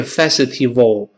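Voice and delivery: festival as 'fes-i-tee-wo'; wrong festival. Shown as a demonstration. Teacher shows the mistake, mispronounced festival. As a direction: say festival with W for V and extra vowels. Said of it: "不是festival".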